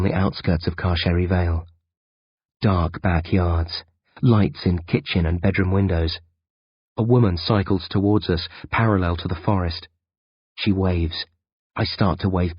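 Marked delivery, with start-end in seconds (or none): none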